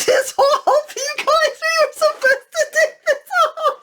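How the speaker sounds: laughing so hard the pitch shoots up; cracking up mid-sentence; helpless laughter. Real, not acted. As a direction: squeak the words out through real laughter. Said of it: "this is too funny".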